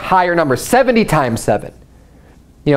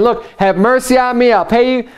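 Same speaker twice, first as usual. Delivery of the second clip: higher, pleading ask for mercy; pleading debtor; 6 semitones higher than usual. Retold or imitated. Fellow servant pleading with the creditor, higher and begging. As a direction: beg for a little patience.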